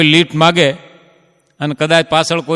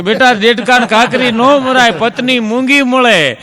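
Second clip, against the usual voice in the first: grandfather voice; 5 semitones higher than usual. Retold or imitated. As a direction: lightly voice the old grandfather warning the boy. Same advice, higher voice. (દાદાની શિખામણ, ઊંચા અવાજે ધીમેથી)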